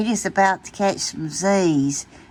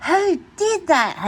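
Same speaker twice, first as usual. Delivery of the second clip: high, slow startled question; sit up startled and ask; surprised; 11 semitones higher than usual. Acted. Pete, woken up, asks his friends surprised.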